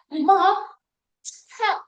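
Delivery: put-on high, loud child's plea; daughter calling. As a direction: squeal it like a little girl asking for help. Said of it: "she said".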